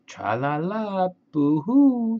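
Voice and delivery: a child's hammed-up whimper; mock crying boo-hoo. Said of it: "says Katy".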